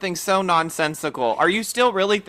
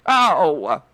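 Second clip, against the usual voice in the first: put-on one-word Brooklyn accent Oh; 3 dB louder than usual. Host answering a Brooklyn guest with a Brooklyn-accent Oh. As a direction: toss off a quick Brooklyn-accent Oh. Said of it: "that was my Brooklyn accent".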